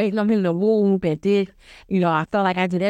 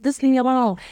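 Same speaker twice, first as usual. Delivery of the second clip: higher-pitched imitation of an upset sister; mock brush-off; 6 semitones higher, faster than usual. Sister pushing sibling away, higher mock protest. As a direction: lightly act out wanting to be left alone.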